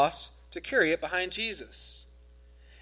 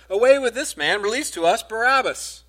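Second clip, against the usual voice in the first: loud, higher cry of the crowd; 5 semitones higher, 5 dB louder than usual. A narrator's reading. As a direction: call it out like an angry mob. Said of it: "they all cried together".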